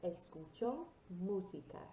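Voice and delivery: "Escucho música" with short final O, for repeating; model pronunciation. Shown as a demonstration. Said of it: "So repeat after me".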